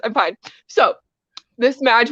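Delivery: ordinary delivery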